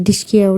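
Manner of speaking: spoken gunshot sound, light and playful; mock gunshot noise. Nagraj acting out shooting for Mahipat, mock gunshot noise. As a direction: go "dishki" like a toy gun firing. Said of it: "असं करून".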